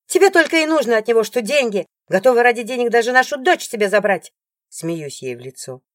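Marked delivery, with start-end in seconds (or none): 0.1-4.3 fast, high, loud tirade; angry rant. Acted. Rival ranting at the ex-wife about money. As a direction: spit the accusation out.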